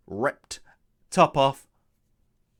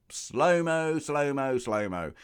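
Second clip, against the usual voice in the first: mock slow motion; slower than usual. Mimicking the film's slow-motion.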